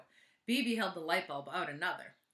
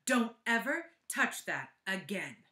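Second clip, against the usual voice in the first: slow, louder stern warning; stern order; 4 dB louder than usual. Acted. Teacher warning Shari off her notebook, slow and stern. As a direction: lay down the law, each word deliberate. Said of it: "ordered Missus Drizzle".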